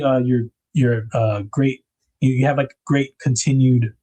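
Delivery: stumbling over the words; tripping over each word, slowly; tongue-tied. Real, not acted. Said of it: "Getting tongue-tied".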